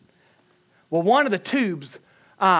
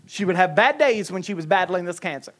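ordinary talk

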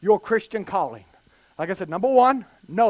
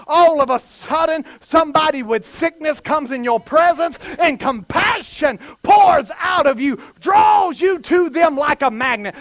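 emphatic, punchy preacher delivery; full-force preaching; 3 semitones higher, 4 dB louder than usual. Real, not acted. Preacher urging the congregation to step into their calling, impassioned preaching. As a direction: drive each phrase home with heavy emphasis.

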